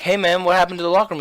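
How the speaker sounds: calling him out, lightly acted; confronting. He confronts the kid who never showed up, confronting.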